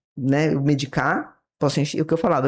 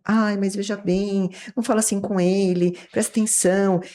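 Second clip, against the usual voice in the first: mock rescuer; 3 semitones higher than usual. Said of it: "salvador que vai querer salvar".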